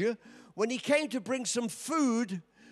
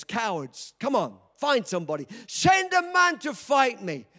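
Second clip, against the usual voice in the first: mocking giant's taunt, rising to a shout; Goliath taunting. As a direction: jeer at the cowards, then bellow the challenge. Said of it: "he came shouting at the Israelites".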